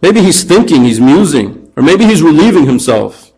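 playful sarcastic goading; mocking taunt. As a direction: make fun of them with fake helpful suggestions. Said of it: "he starts making fun of them".

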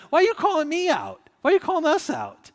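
high, loud, put-upon outcry; irritated protest. Retold or imitated. Member called out by Paul's letter protests, irritated and loud. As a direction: act out the indignant church member. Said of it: "get a little irritated".

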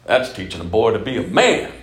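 loud objector, punching the last word; boisterous imagined heckler; mock macho retort. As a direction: argue back loudly, leaping up on the final word.

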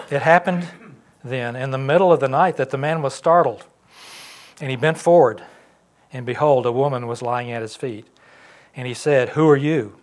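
loud, projected Bible reading; scripture reading. Acted. Pastor reads Ruth's story to the congregation, loud scripture reading.

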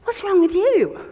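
blunt question. Retold or imitated. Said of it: "she said to me".

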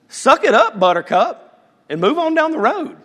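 high, loud dismissive brush-off; gruff dismissal. Retold or imitated. God as strict justice to complainers, loud brush-off. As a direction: bark it like a tough-love boss. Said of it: "Justice would be ... he goes".

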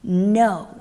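loud furious protest; mock furious crowd shouting; angry mob yelling. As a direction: shout down the prisoners. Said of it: "they were yelling".

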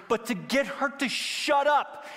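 high, slowed, pushed-out complaint; exasperated plea. Retold or imitated. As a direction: act fed up and begging for relief. Disciples' exasperated plea, acted.

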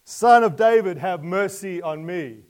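very loud, high, desperate cry. Acted. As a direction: shout it out with everything. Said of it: "Let your cry come out all the more".

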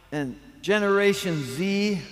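usual speaking voice

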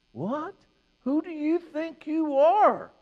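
very high, drawn-out incredulous question; mock indignant disbelief. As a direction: play a scandalized listener challenging his claim. Voices outraged listeners challenging Jesus.

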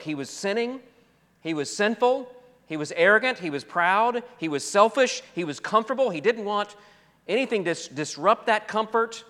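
high, mounting preacher's list; emphatic preaching. Acted. Preacher lists the sins.

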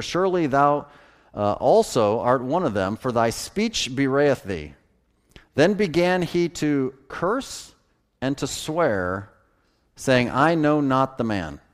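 measured King James Bible reading; scripture reading. Acted. Preacher reading Matthew aloud to the congregation, solemn. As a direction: read the verses with solemn weight.

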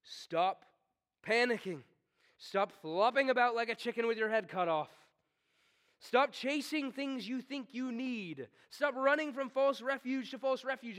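firm, rising booming command; father's booming. Acted. Father calls to his panicking child, booming. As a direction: call out like a father at the pool. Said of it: "This is a father's booming".

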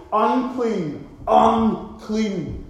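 mock leper's call of warning. Preacher acting lepers warning passersby, calling out. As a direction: call it out across the distance. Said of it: "they were to shout out".

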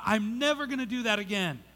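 mildly hammed-up promise to oneself; emphatic vow. Acts out a resolute vow.

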